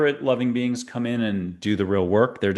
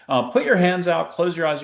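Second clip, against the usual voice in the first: ordinary delivery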